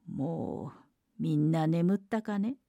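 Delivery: slow, hushed monster voice testing if they sleep; coaxing low question, drawn out; monster asking softly. Acted. Monster checks whether the girls sleep, slow and hushed. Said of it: "と声をかけました".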